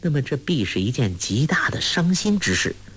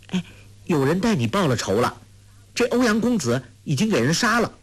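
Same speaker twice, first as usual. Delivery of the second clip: put-on a clever girl, higher and quicker, teasing; lightly voiced Huang Rong; 8 semitones higher, faster than usual. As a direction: play the sly young girl breaking the news lightly. (俏皮少女黄蓉，语调偏高偏快)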